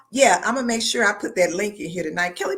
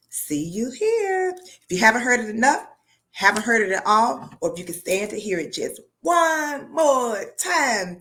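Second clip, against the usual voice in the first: excited sign-off; 4 semitones higher, 3 dB louder than usual. Real, not acted.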